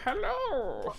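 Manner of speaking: put-on old-timey announcer voice; slow, drawn-out announcer call; 1950s narrator. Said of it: "as an old-timey announcer?".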